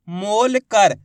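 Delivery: मोल कर with a long मोल, separate कर; split into parts. Shown as a demonstration. Teacher helping learners hear letters, मोल कर split. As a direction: say मोल कर piece by piece. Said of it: "बोलते जाइए, आपको अक्षर पता चलते जाएंगे".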